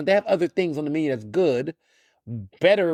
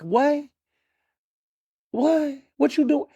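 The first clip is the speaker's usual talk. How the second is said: high, disbelieving repeated what; mock baffled onlookers, pitched way up; incredulous black folks; 10 semitones higher, slower than usual. Imitating black folks baffled by the BLT line, high and incredulous. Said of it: "We would be like".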